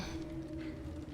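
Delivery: very soft breath out; barely audible exhale; relenting sigh. Acted. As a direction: sigh faintly, giving in. Softening after the apology.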